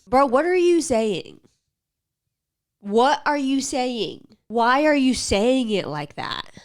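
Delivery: exasperated. Real, not acted. Ranting at the ad guy, loud and baffled. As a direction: demand an answer, baffled.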